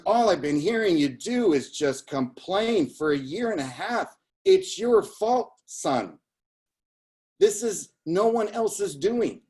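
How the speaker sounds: scolding Sicilian-Boston grandpa, voice swooping high; high, emphatic Sicilian Bostonian telling-off; Sicilian Bostonian grandfather. Retold or imitated. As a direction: imitate a Bostonian Sicilian grandfather laying blame. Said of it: "in his, his Sicilian voice, uh, Bostonian".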